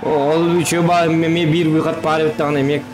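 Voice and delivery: ordinary delivery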